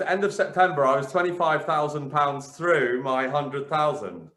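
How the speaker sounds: ordinary delivery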